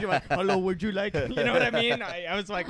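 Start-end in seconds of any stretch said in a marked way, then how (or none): 0.3-1.1 mock Indian accent. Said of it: "who has the best Indian accent".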